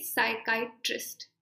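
साइकाइट्रिस्ट in careful parts, sai-kai-trist; correct pronunciation. Shown as a demonstration. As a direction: spell out the sounds of साइकाइट्रिस्ट, short i at the end. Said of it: "ये note करो pronunciation". (साइकाइट्रिस्ट का साफ़ उच्चारण, "काइ" फिर "ट्रिस्ट")

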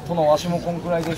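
fast, humble reply; quick retainer's reply. Retold or imitated. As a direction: answer the lord quickly. Retainer answers the lord. (早口の家来)

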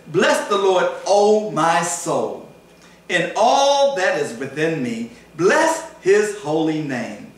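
slow, measured scripture recital; solemn scripture reading. Acted. Preacher reads Psalm 103 to the congregation, slow and solemn. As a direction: lift each phrase of the psalm slowly.

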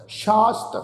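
ਸ਼ਾਸਤ with sh first and plain s later; careful teacher's ਸ਼ਾਸਤ as shaast; sh then s in ਸ਼ਾਸਤ. Shown as a demonstration. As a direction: open ਸ਼ਾਸਤ on sh, end on st. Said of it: "ਪਹਿਲੇ ਸੱਸੇ ਨਾਲ ਬਿੰਦੀ".

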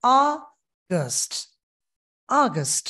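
অগাস্ট in American accent, first syllable drawn; American style অগাস্ট. Shown as a demonstration. Teacher models the American অগাস্ট. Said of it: "American হচ্ছে".

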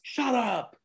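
high, delighted disbelief; playful stunned delight; shut up. Real, not acted. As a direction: gasp it out in happy shock. Excited disbelief at shared hometown.

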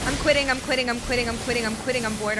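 loud, insistent repeated chant of frustration; rage-quitting. Real, not acted. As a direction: repeat it like you've had enough. Rage-quitting after being hit.

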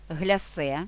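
"Глясе" stressed on "се", French style; наголос на "се" у "Глясе"; stress on second syllable. Shown as a demonstration. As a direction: lean on the last syllable of "Глясе". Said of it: "Наголос ставимо на другий склад".

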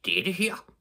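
high, indignant emphasis; storyteller's irate neighbour; angry shout. A narrator's reading. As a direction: announce it crossly. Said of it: "råbte den vrede stemme".

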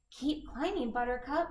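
breathless, puffing; out of breath. Acted. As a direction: puff the words between breaths. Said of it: "said Dandy breathlessly".

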